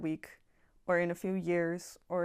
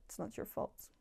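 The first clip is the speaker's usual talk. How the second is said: softer, breathed-out whisper; whispered comfort; 3 semitones higher, 8 dB quieter than usual. Real, not acted. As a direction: whisper it like a last consolation. Final soothing reassurance.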